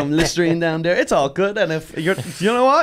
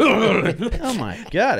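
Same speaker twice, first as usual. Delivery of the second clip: laughing oh my God; 5 semitones higher, much slower than usual. Real, not acted. Laughing disbelief.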